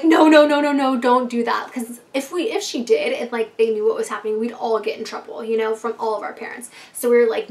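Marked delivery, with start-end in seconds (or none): 0.0-1.7 urgent no. Retold or imitated. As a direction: stop her fast, then settle. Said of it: "We're like".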